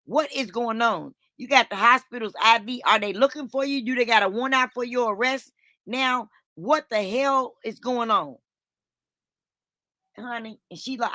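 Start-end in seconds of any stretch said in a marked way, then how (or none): 0.0-8.4 high-pitched, exasperated grilling; retold scolding questions, pitched up; confused interrogation. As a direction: demand answers, incredulous. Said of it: "'cause I'm confused".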